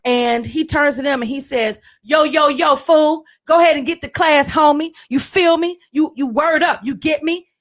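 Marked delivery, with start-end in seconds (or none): 2.0-7.5 higher, mock-hip principal voice; pushy put-on homie talk; principal talking slang. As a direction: imitate an administrator putting on street slang. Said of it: "Why are you talking like that to us?".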